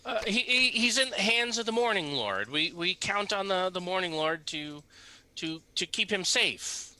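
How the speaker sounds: high, stammering faith; nervous father. Acted. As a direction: shaken old man. NPC father faltering.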